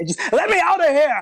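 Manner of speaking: very high, loud, desperate yell. A game narrator voices a dwarf pounding on a door: dwarf pounding on a door. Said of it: "There's a dwarf pounding".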